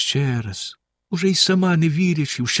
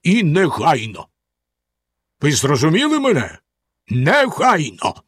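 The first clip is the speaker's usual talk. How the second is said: stern Bluebeard; 2 semitones higher than usual. A narrator's reading. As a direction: lay down the sentence coldly. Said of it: "суворо сказав він". (суворо, повільно)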